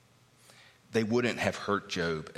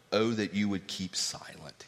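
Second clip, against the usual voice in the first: hushed whisper of "Oh, that you would keep silent."; 3 dB quieter than usual. Retold or imitated. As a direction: breathe the line as a secret. Whispered quote of Job.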